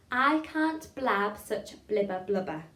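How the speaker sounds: very slow, separated, crisp words; tongue-twister demo. Shown as a demonstration. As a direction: spell it out word by word for learners. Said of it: "Try that with me".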